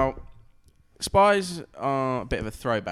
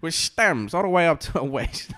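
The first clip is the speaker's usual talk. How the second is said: lightly hammed-up noir storytelling, raised in pitch and volume; raised, melodramatic noir voice-over; mock noir narrator; 5 semitones higher, 3 dB louder than usual. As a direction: play at narrating a noir romance. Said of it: "A noir thing".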